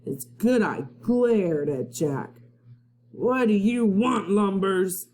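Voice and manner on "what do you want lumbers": pirate captain. Acted.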